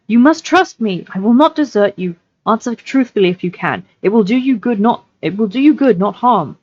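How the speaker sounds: lightly voiced earnest hobbit; a slightly lifted, urging hobbit voice; Frodo, earnest. Hobbit urging the captive to trust him, lightly earnest.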